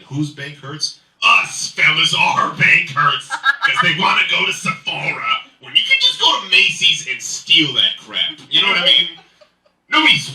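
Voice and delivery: loud, high comic rant. Real, not acted. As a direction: rant loudly to the fellas. Comic rant about spending.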